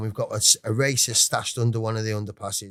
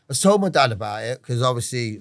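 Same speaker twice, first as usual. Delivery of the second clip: usual speaking voice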